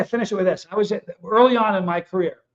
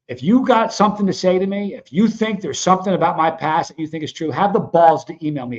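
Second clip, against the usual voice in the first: loud angry challenge; 3 dB louder than usual. Real, not acted. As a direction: call them out, angry. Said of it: "a little pissed off".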